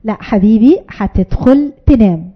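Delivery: low, slow, steady "هتدخل تنام"; calm firm parent. Shown as a demonstration. Mother calmly tells refusing child to go to bed, low and steady. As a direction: firmly repeat the bedtime order. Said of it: "الغلطة بتحصل في إيه؟".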